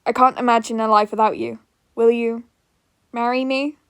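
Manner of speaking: a lover's proposal, savouring each word; a hint of a smitten young man popping the question; Rampo proposing.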